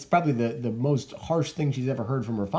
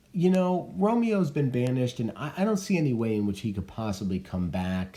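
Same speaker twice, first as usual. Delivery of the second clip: put-on a touch of a practical old nurse; the nurse advising Juliet, lightly voiced; 3 semitones higher than usual. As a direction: break the hard news plainly. Nurse praises Paris.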